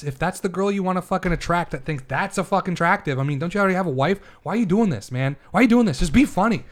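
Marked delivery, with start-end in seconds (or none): 3.4-6.6 heated, higher-pitched pleading. Real, not acted. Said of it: "You've been heated".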